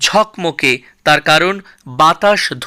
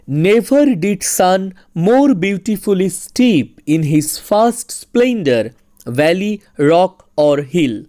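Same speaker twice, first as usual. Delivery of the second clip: slow, measured verse reading; poem recitation; much slower than usual. Acted. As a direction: recite it slowly, pausing between the images.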